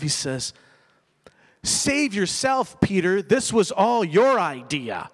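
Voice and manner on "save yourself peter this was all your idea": mock sarcastic Jesus. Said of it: "no, that's not what happened".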